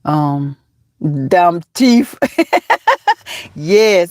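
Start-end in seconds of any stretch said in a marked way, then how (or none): 1.3-2.2 "thief" said as "teeth" without its TH, like "teef"; imitated catchphrase. Reminding a friend of his line, "thief" turned into "teef". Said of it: "that's what you supposed to been said".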